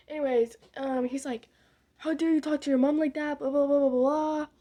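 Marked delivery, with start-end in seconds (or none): 2.0-4.5 imitating an angry dad, louder; mock scolding. Retelling dad defending mom, mock angry scolding. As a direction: scold like Dad, trailing into loud blahs.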